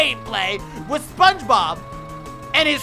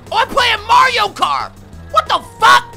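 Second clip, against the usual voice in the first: loud, high startled outburst; startled shout; 12 semitones higher, 11 dB louder than usual. Real, not acted. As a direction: yell out in shock. Gamer startled by game.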